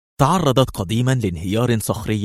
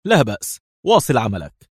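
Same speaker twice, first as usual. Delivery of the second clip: dismissive; 3 semitones higher, 3 dB louder than usual. Acted. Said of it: "في استهتار".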